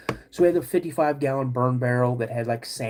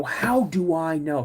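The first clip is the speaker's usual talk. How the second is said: slow, drawn-out mock exasperation; half-hearted yell back at dad; mild retold yell; 3 semitones higher, slower than usual. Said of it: "I'm starting to yell at my dad".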